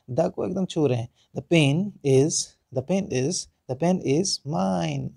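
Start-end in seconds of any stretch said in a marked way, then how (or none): 1.4-5.1 slow, "pain" and "mine" lengthened; time on pain. Shown as a demonstration. Teacher drills students on lingering on "pain", slow. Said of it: "पेन में थोड़ा समय ले रहे हैं".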